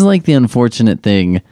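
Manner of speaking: usual speaking voice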